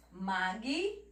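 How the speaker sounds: magnífico broken up, "mag... ní... fi... co"; "Magnífico" dictated piece by piece, g closing the first; syllable division. Shown as a demonstration. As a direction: pause between the syllables of Magnífico. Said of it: "Ela não vem pra frente".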